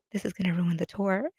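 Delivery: softly muttered aside, still voiced; under his breath. Singer to himself as he gets arrested, under his breath. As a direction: grumble it softly to yourself. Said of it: "under his breath".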